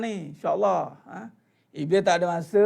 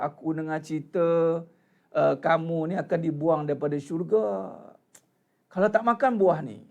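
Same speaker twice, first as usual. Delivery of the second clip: lower, lightly voiced old man with a pitiful tone; a hint of a worried old man whispering rumours; 4 semitones lower than usual. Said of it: "dengan perwatakan orang tua".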